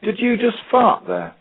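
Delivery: very high, slowed mock question; high-pitched prank message. Teacher recording a prank on pupil's Big Mac, high put-on voice. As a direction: pitch it way up and draw out the silly question.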